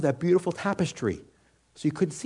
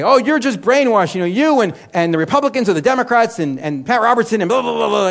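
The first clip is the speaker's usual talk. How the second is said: louder scornful heckler, slowed; mock yell; 5 semitones higher, 5 dB louder than usual. Passerby yelling at the street preacher, mock yell. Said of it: "they're yelling at me".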